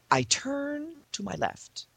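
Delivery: high, slow, whispery storytelling; hushed suspense. A narrator's reading. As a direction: draw out the reveal, softly. Suspenseful build to the reveal.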